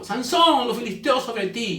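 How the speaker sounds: sudden dramatic high cry; calling out a warning. Acted. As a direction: call out to wake him. Acted warning cry waking Samson.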